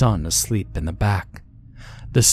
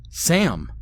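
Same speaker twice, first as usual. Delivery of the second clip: shout; 8 semitones higher than usual. A narrator's reading. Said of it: "I shouted".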